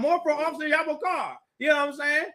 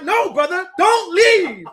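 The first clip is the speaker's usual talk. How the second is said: louder, higher plea with a laugh; pleading call; 6 semitones higher, 5 dB louder, slower than usual. Retold or imitated. Teacher begs the leaving brother to stay, louder. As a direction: call him back urgently, laughing. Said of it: "And I'm like".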